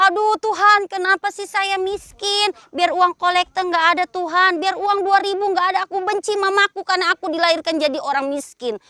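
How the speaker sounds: mock-exasperated grumbling to God; annoyed complaint. Teacher acts out a child resenting poverty to God, annoyed. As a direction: rattle off an acted, peeved complaint. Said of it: "Dia jengkel".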